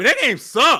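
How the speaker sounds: loud, high-pitched, angry ranting. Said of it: "we gotta clip that".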